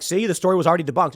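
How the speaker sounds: "See, the story was already debunked" rattled off fast, lightly mocking; fast, half-hearted mimicry of the gloaters; quick mocking "See, the story was already debunked"; rushed mock gloat. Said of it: "coming out and being like".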